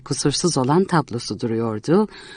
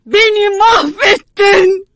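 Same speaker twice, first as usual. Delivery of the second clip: slow, much higher, louder, near crying; anguished shout; 7 dB louder, much slower than usual. Acted. Ruined painter crying out at Miss Martha, anguished shout. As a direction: wail the accusation. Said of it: "diye haykırıyordu".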